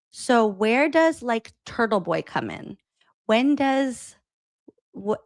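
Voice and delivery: halting, drawn-out mock fumbling; stalled, hesitant quoted question; nervous stutter. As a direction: imitate someone stumbling into a question. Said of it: "starting to stutter and can't figure out".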